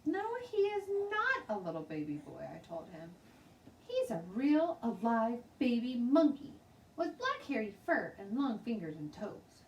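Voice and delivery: put-on high, eager little girl insisting; a young girl sure she is right.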